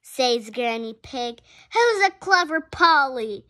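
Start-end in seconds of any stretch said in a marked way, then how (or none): 1.7-3.4 high, loud parroting; loud parrot mimicry; parrot repeating. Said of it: "repeats Polly Parrot".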